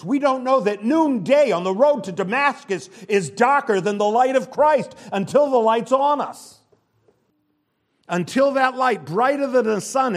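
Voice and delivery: high, loud pulpit preaching; full-force sermon delivery; fiery preaching. Acted. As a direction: preach it hard to the congregation.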